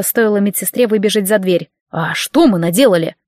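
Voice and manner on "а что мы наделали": lower, innocent, stress on мы; curious question. Acted. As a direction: ask «мы» with open curiosity. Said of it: "с нескрываемым любопытством спросил Ладик".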